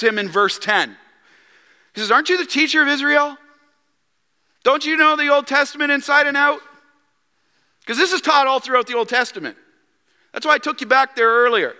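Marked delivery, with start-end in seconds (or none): 2.1-6.6 higher, pointed questioning; sharp, loving rebuke. Retold or imitated. Jesus rebukes Nicodemus the teacher, sharply but lovingly. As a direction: chide a teacher who should know better. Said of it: "sharply but lovingly rebukes".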